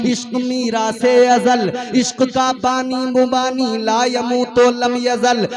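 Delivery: rhythmic, declaiming religious verse; poetic recitation. Acted. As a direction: recite it like a preacher's poem.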